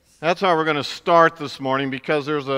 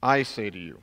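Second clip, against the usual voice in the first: I said softly and lower, weighted; quiet emphasis; 6 semitones lower than usual. Shown as a demonstration. Preacher repeating Jesus' words to show authority, soft and weighty. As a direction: let the I land quietly and firmly. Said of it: "Nobody taught like that except him".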